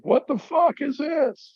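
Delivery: high, slow, put-on voice of pissed-off disbelief; mock pissed-off. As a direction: hams up his own annoyance. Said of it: "and I was pissed".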